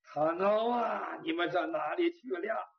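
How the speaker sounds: slow, drawn-out plaintive call; calling out for friends. Acted. Suffering man calls for Tang Ao, a mournful cry. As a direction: lament for absent companions, stretching the name. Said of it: "他喊多久公唐敖".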